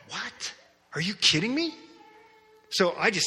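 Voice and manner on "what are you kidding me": high, startled what; shocked disbelief. Retold or imitated. Pastor seeing the demonic tongue, high shocked disbelief. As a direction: squeak out the shock.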